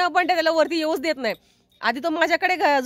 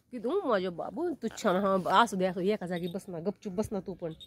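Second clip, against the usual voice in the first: soft, low murmur to a pet; soothing; 8 semitones lower, 7 dB quieter than usual. Real, not acted. Soothing the pet to sit quietly, tender and soft. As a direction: settle a little one down gently.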